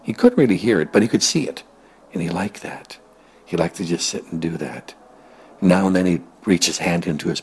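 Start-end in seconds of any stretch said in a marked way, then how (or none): 2.1-3.0 soft whispered aside. A narrator's reading. Narrator tells what the pig liked, whispering. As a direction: hush it fondly.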